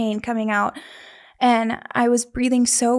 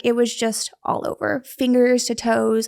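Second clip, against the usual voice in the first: usual speaking voice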